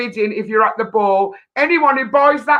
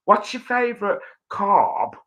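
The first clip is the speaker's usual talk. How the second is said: mock posh accent; 2 semitones lower, 3 dB quieter than usual. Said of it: "if I was posh".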